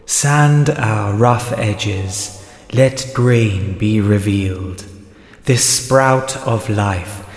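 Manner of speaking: very slow, solemn creed recital; slow ritual incantation; solemn intoning. Acted. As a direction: intone it like a sacred vow. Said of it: "Join with me in intoning the Sandpaper Creed aloud".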